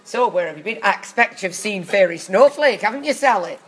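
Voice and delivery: hammed-up pointed prompting; spoon-feed the line as a question; leading panto prompt. Actor feeding lines to stoned co-star, leading prompt.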